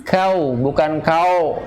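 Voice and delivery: "kau" ending in a clean u, not o; wrong versus right vowel. Shown as a demonstration. Teacher contrasting vowel endings slowly. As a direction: contrast "kau" with a clear u end. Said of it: "ujungnya u setelah ka".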